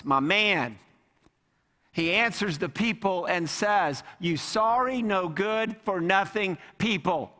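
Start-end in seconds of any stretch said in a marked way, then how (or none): 4.2-7.3 mock scolding. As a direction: tell them off, half in jest. Mock angry rebuke as himself-as-Moses.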